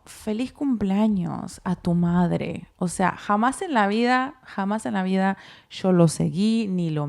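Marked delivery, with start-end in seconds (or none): 0.0-2.7 each word drawn out, as if typing it; slow dictation. Retold or imitated. Wife dictating her first text to Eric, slow and deliberate. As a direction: spell out the birthday message slowly while typing. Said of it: "¿Qué le pongo?".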